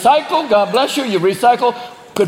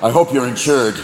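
vengeful buck; 3 semitones lower than usual. Pretend. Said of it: "buck that jump out".

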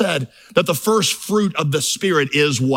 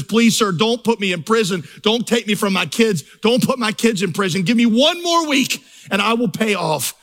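higher, mild mock begging; pleading debtor; 5 semitones higher than usual. Debtor begging the creditor in court, mild mock pleading. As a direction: plead like a man on his knees in court. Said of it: "he just starts to weep and he says".

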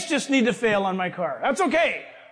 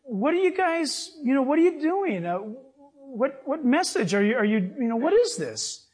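voicing the father; 5 semitones higher than usual. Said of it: "he said".

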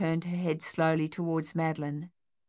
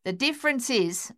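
snapped; 6 semitones higher than usual. Acted. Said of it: "Sonia snapped".

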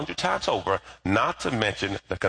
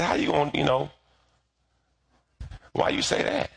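indignant surprise; 5 semitones higher than usual. Retold or imitated. His reply to wife, retold.

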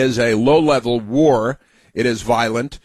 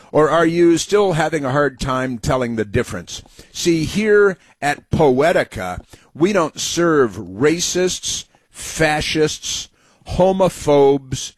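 mocking read; 4 semitones higher, slower than usual.

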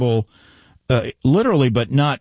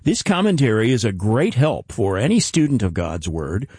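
polished, evenly paced promo delivery; radio announcer read. Acted. Host offering listeners the Zechariah commentary, announcer read. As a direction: present it like a scripted broadcast sign-off.

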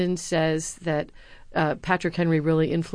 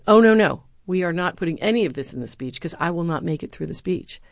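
retold protest; 4 dB louder than usual. Retold Bush refusing, emotional.

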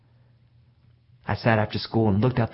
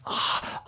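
breath knocked out, unvoiced gasp; winded gasp of pain; 7 dB quieter than usual. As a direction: gasp as if the air is gone from you. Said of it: "all the air went out of my body".

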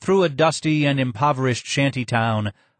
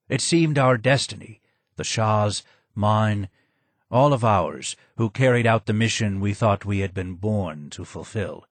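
low and hoarse. Acted. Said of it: "more sad than angry".

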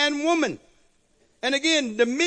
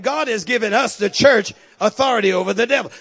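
louder, hammered repeat; repeated for emphasis; 2 semitones lower, 5 dB louder than usual. Acted. Preacher repeating his point to the congregation, louder and punched. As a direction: drive the line home to the church. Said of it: "I said".

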